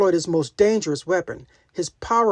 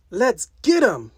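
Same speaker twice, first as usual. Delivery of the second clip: a slow, eager rallying whoop; whooping cheer; 5 semitones higher, 4 dB louder, slower than usual. Acted. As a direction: cheer your partner into the fight. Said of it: "Captain Marvel whooped".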